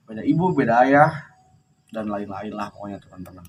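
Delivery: talking around a cigarette; cigarette in mouth. Real, not acted. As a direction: speak with a cigarette between the lips. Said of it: "Maaf sambil ngerokok".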